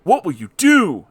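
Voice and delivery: high, loud eager John; John with audacity. Acted. John asks Garfield his plan, high and loud. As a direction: ask boldly in a high voice. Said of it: "asked John Arbuckle with audacity".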